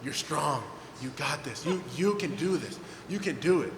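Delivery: calm a scared son down; a dad talking his son back into skating, softly; reassuring dad. Retold or imitated. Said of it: "my dad's like".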